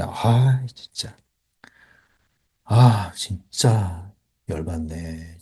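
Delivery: long, low, exasperated groaning words; mock irritation. Shown as a demonstration. Coach demonstrating getting annoyed, slow exasperated grumble. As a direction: drag it out slowly, fed up. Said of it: "자, 짜증내".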